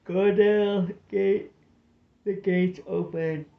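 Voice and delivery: high, loud frantic yell; frantic shout. A narrator's reading. Skipper on the wall yells for the gates, frantic. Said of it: "shouting frantically".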